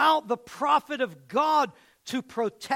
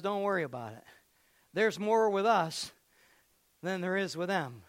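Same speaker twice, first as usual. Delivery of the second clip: calm reassurance; 5 semitones lower, 3 dB quieter, faster than usual. Acted. Prophet calming his servant.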